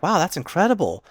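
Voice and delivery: high, gushing mock amazement; impressed. Pansy reacting to Shin's high rank, impressed. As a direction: imitate a girl who is wowed.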